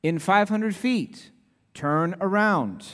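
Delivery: slow, even satnav voice; lightly voiced GPS prompt; imitating the GPS voice. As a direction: mimic the phone's navigation voice. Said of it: "the voice very kindly comes on and says".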